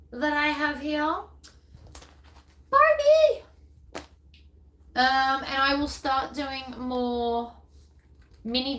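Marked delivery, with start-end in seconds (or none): 2.7-3.4 high, loud call to Barbie. Real, not acted. Creator calls to her pet Barbie, loud and high. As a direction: shout the name up high across the room.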